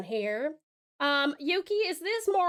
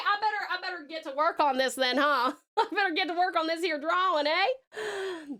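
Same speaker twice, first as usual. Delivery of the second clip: Southern drawl; 3 semitones higher than usual. Acted. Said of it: "sounds more southern".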